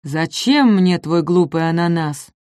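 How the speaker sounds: slow, weary grumble; sighing dismissal. Acted. Апатозавр вздыхая отмахивается. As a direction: brush it off with a sigh. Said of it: "вздохнул апатозавр".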